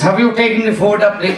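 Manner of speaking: mock Indian doctor; Indian accent. Doctor questioning his patient, Indian accent. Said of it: "He was an Indian doctor".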